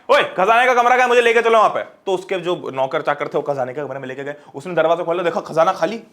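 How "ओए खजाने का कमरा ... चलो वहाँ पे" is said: put-on a young king calls out loudly to servants, higher pitch; bossy king. The new king calls out for the treasure room, bossy and loud. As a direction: order the servants around like a spoiled king.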